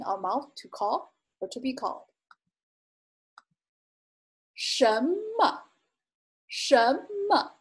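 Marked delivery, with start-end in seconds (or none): 4.5-5.6 什么 with rising 什 and toneless 么; neutral tone demonstration. Shown as a demonstration. Teacher noting there's no tone mark, careful pronunciation demonstration. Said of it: "Note that there's not a, uh, tone". 6.5-7.5 什么 with rising 什 and toneless 么; neutral tone demonstration. Shown as a demonstration. Teacher noting there's no tone mark, careful pronunciation demonstration. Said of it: "Note that there's not a, uh, tone".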